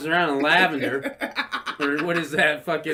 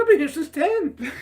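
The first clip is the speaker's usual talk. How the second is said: high, louder laughing retort; laughing mock exasperation; 13 semitones higher, 6 dB louder than usual. George telling his date, laughing exasperation. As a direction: squeak it out, amused. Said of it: "He's like".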